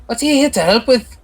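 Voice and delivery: high, hard-edged interrogation; stern officer voice. Acted. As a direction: grill them like a suspicious officer.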